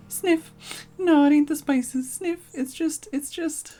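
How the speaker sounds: high, loud weepy thief, sniffling between words; a big rogue crying his heart out; blubbering bandit. Acted. Bandit sobs over his pie.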